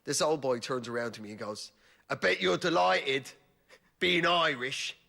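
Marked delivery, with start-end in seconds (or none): 2.1-5.0 put-on a cheerful old English boy, a touch louder; mock-friendly pensioner in the sauna; friendly old man. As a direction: beam at him like an old pal. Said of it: "in the friendliest way possible".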